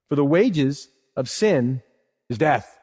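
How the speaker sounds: slow, weighty reading of the verse; solemn quote. Shown as a demonstration. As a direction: lean on wages and death, slowly. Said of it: "Look what he says next".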